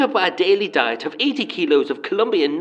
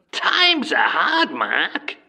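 mock self-pity; 3 semitones lower, much slower than usual. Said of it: "mock hardship".

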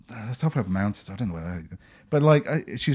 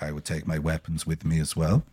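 imitating the man; 9 semitones lower, 8 dB quieter than usual. Man's reply voiced low.

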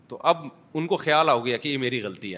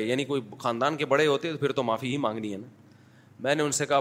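ordinary delivery

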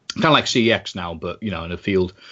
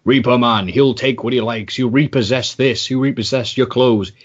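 hyped promo read; 3 semitones higher than usual. Retold or imitated. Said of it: "it made it sound like".

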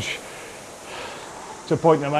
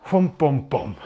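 rhythm sounds. Shown as a demonstration. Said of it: "the rhythm in my body goes".

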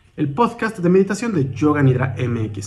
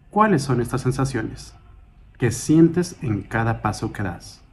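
calm, measured meditation guide, slightly softened; guided meditation; 3 dB quieter than usual. Acted. Guide leading a listener through a mindful walk, calm guided meditation. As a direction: guide them gently through each step, with long pauses.

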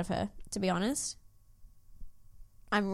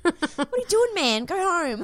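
much higher, mock bewildered telling-off; incredulous scolding; 8 semitones higher than usual. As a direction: shoo him away, pitch way up. Talking to Todd in tree.

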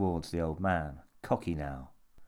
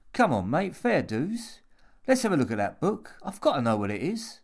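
higher, insistent appeal; cajoling Jimmy; 7 semitones higher, 4 dB louder than usual. A narrator's reading. Jimmy pleads with old man to see the book, cajoling. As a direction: coax him with pitched-up urgency.

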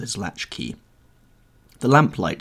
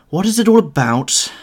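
a higher, louder petulant outburst; petulant cry; 12 semitones higher, 10 dB louder than usual. Acted. Dorian flings himself down, crying out petulantly. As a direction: cry it out like a spoiled, impatient young man. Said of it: "cried Dorian, in his petulant way".

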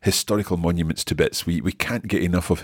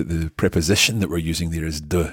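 ordinary talk, nothing marked

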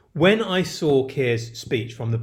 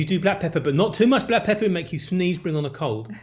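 lightly put-on Yiddish accent, pitched up at first; 3 semitones higher than usual. Advising partner on bagel seasoning, mock Yiddish accent. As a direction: give it a hint of Yiddish fussing. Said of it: "are you doing a Yiddish accent".

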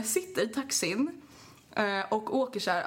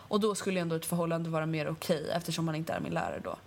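steady lower letter read; 3 semitones lower than usual. Acted. Reading a listener's letter, steady read. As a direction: read it out plainly.

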